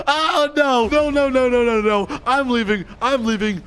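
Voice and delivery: high-pitched rush of alarm; playful panic. Pretend. Player fleeing as they lock the door, panicked.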